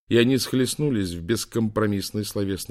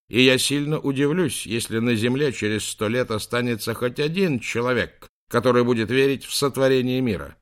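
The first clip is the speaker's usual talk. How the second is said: громко; 4 semitones higher, 5 dB louder than usual. Acted. Профессор горячо спорит в камеру.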